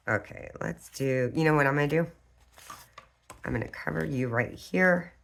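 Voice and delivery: dazed and loopy from cold medicine. Real, not acted. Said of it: "I feel like I sound a little loopy".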